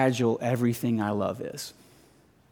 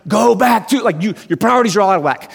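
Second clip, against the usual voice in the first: higher, urgent mock scolding; retold exasperated order; 4 semitones higher, 4 dB louder, faster than usual. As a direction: order them back, exasperated. Ordering wife back to bed.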